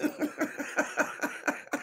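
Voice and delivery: quiet wheezing laugh; breathy laugh. Real, not acted. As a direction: laugh under your breath. Laughing at own joke.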